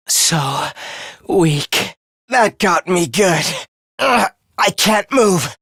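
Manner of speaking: low, weakened and hurting; wounded. Acted. Hurt fighter unable to move, low and strained. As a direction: struggle to speak through an injury.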